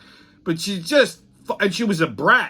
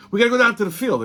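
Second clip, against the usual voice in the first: higher-pitched insistent repeat; insistent colleague; 6 semitones higher, faster than usual. Retold or imitated. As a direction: imitate someone pressing the point.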